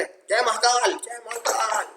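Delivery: high-pitched rousing rant, like the maths teacher; mock fierce form. Teacher imitating the maths sir to demand shares, mock-fierce rallying cry. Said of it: "ऐसा मैं रुद्र रूप धारण कर लूँ".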